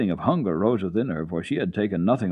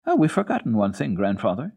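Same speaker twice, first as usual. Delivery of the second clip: put-on bright sudden realisation as a child; Heidi, child voice; 3 semitones higher, 3 dB louder than usual. Heidi speaking.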